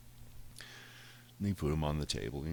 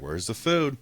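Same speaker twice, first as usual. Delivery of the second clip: higher, louder demanding cat voice; 7 semitones higher, 8 dB louder than usual. Retold or imitated. Cat back home demanding food, pitched-up bossy voice. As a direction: play the bossy cat asking for dinner.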